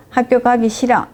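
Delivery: put-on a mild whine from a child who doesn't want to go; lightly voiced child whining about school. A child whining to his mother, mild mock whine. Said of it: "하고 징징거려 본 겁니다".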